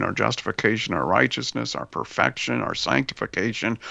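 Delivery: running out of breath mid-list. Real, not acted. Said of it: "I'm out of breath".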